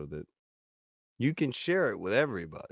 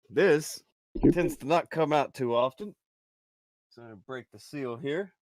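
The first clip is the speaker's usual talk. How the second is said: excited; 6 semitones higher, 8 dB louder than usual. Real, not acted. Hyping a rare chest reveal.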